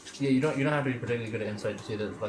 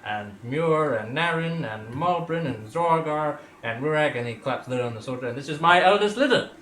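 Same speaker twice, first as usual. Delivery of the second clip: proud introduction; 4 semitones higher, 8 dB louder than usual. Acted. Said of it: "Grandpa Zero's like".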